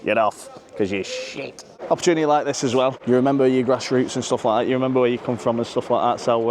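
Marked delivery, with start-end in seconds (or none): 0.0-1.6 lightly mock the boss giving orders; imitating the manager. Fan imitates the manager ordering a player off, lightly. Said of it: "gives all the orders and shit and says".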